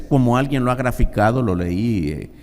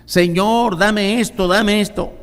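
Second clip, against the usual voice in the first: put-on much higher, childlike begging; begging prayer; 8 semitones higher, slower than usual. Believer begging the Lord, high and insistent. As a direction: nag the Lord for it.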